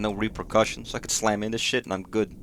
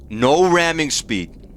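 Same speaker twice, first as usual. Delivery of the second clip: captain's refusal; 4 semitones higher, 8 dB louder, much slower than usual. Pretend. Acting a captain refusing ramming.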